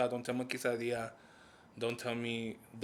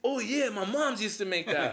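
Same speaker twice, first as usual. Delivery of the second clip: recognizing voice; 8 semitones higher, 3 dB louder than usual. Retold or imitated. Quoting someone recognizing dish.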